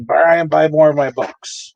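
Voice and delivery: slow, lightly put-on British accent for a late author; a weak British accent, voicing the late author from above. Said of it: "I can't do a British accent".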